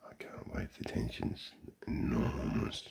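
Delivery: hushed, unvoiced whisper of fake suspense; mock tense whisper. Real, not acted. Watching golfers decide, whispering mock suspense. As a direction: whisper it like a hushed golf commentator.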